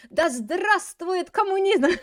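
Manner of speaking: loud, high, slow proclamation; mock-grand rallying cry, words stretched out; rallying slogan. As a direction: chant it like a hammed-up revolutionary. Acted slogan of imagined revolutionary.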